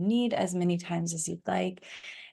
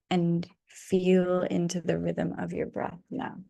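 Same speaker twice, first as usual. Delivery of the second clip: calm meditation voice with long pauses; guided meditation. Real, not acted. Guide leading listeners to land into rest, calm meditation voice. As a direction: guide them gently into rest, lingering between phrases.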